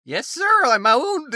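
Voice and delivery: high squeaky mock submission; mock submissive. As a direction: play the eager sub, hammed-up. Mock submissive reply to reading.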